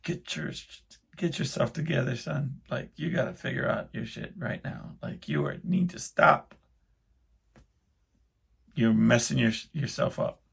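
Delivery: soft, urgent pep talk to himself; whispered inner scolding; self-scolding whisper. Retold or imitated. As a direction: hiss it at yourself under your breath.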